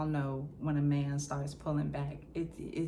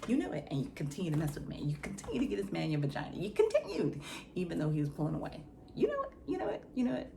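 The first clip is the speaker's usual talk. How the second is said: self-scolding. Retold or imitated. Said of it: "all I keep thinking in my mind".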